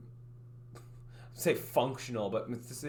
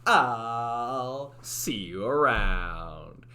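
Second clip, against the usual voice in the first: 1 drawn-out sign-off; 6 dB louder, much slower than usual. Shown as a demonstration. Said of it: "Should I have done that in, like, the Italian accent?".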